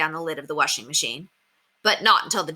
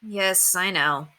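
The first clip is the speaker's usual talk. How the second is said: sheepish; much slower than usual. Acted. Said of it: "said Henry sheepishly".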